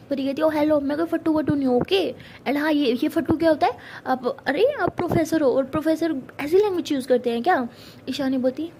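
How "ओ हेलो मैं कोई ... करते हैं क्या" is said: indignant. Acted. Pari indignant at being called coward.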